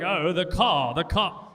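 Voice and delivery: lightly drawn-out posh British vowels on car; a hint of an upper-class British voice; posh British accent. Showing how Fancy B sounds to the servers, lightly posh British. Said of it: "British people like".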